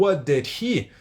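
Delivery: "What did he" each word sounded; careful, full "What did he"; separate words. Shown as a demonstration. Teacher showing words before merging, each kept apart. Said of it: "transformou tudo numa coisa só".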